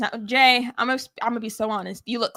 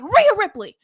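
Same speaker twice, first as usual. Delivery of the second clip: mock announcer; 10 semitones higher, 9 dB louder than usual. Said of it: "He was like".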